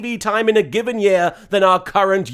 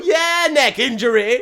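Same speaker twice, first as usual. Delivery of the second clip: put-on drunk voice; 3 semitones higher than usual. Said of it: "She sounds like a drunk character".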